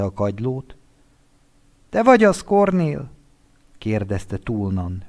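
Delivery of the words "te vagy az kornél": high, loud anxious friend on the phone; a friend calling at dawn, distraught; Winter's shaky call. Acted.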